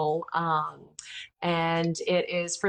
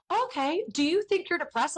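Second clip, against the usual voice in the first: gentle friend; 10 semitones higher than usual. Retold or imitated. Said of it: "my friend was so sweet".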